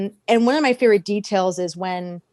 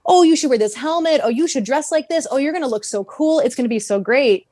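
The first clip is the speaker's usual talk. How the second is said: higher-pitched, lightly voiced sweet-talk; lilting mock flattery, pitched up; mock coaxing; 4 semitones higher than usual. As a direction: egg him on with gushing praise. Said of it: "he was like".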